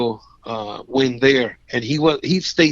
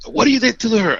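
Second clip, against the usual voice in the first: accusing cop; 9 semitones higher, faster than usual. Retold or imitated. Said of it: "it's like".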